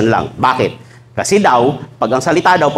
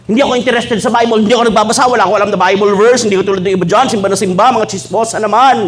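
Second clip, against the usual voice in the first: mocking Facebook poster; 5 semitones higher than usual. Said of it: "nagpo-post pa sa Facebook".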